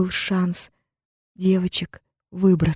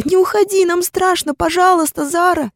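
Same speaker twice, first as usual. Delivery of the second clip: put-on much higher, louder little girl begging; Анита begging her sister to stay, high and tearful; pleading child; 13 semitones higher, 5 dB louder than usual. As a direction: beg her not to leave, like a small child. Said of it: "вцепилась в меня Анита".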